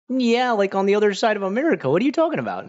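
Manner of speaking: very high, loud and fast protest; exasperated disbelief. Retold or imitated. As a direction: retell it as a squeaky-high exasperated outburst. Retold exasperated answer to confusion.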